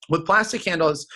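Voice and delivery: "plastic handles" said with a touch of scorn, as if it smells; disgusted tone. Shown as a demonstration. Rep showing the customer a disgusted tone. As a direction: sneer lightly at "plastic handles". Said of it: "you wanna use the tone of voice that nobody in their right mind would ever use".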